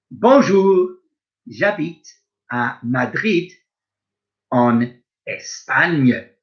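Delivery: a lightly voiced Spanish speaker saying bonjour, slow and clear; Spanish speaker role. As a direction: play someone from Madrid, lightly. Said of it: "I'm gonna play the part of various other people".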